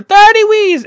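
high, loud holler; shouted announcement. Retold or imitated. Store staff announcing the cutoff, shouted. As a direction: call out the number to a crowd.

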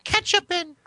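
slow, very high falsetto; put-on high wife voice, drawn out; pretend woman. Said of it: "Can you pretend to at least be a woman?".

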